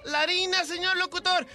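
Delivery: high mock señora answering; caricatured contestant; lady caller. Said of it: "dice la señora".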